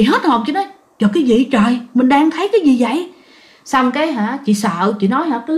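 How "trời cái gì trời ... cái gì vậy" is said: shocked gasp. Retold or imitated. Niece shocked seeing grandmother.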